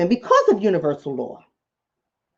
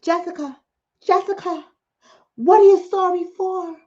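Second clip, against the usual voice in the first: reporter yelling; 6 semitones higher than usual. Retold or imitated. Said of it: "Yells a reporter in the background".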